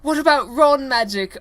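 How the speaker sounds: put-on squeaky kid voice; high squeaky Ron voice. Reader voices Ron asking Harry, high and squeaky. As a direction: pitch way up for Ron.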